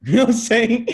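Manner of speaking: high laughing question. Real, not acted. Amused at the listener's joke, laughing hard. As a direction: laugh through it. Laughing at his own story.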